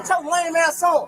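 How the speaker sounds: telling the officer to get lost; angry shout. Real, not acted. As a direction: shout him off. Arguing with police at traffic stop.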